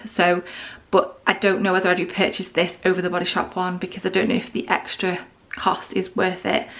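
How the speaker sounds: ordinary talk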